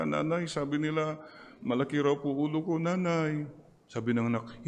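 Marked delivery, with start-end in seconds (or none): 0.0-3.5 put-on crying child, higher and fast; a small child complaining to his mother; child's voice. Child complains to mother about his head, higher-pitched childlike voice.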